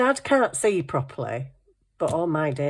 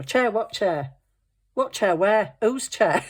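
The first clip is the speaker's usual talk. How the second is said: confused mum; 4 semitones higher than usual. Retold or imitated. Deaf mum mishearing.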